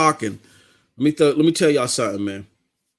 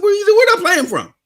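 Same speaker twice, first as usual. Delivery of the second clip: amazed high question; faster than usual. Retold or imitated. Brother amazed by the stream.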